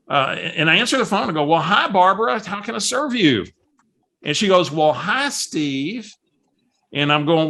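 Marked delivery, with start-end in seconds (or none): 1.4-3.4 higher-pitched, welcoming hello to a caller; retold eager-to-help phone voice; friendly phone greeting. Answering Barbara's call in the car, retold friendly greeting. 4.7-6.1 a lightly voiced caller's hello; hint of a cheery woman on the phone; imitating Barbara. Barbara greets Steve on the phone, lightly imitated cheery caller. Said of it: "I gotta imitate Barbara".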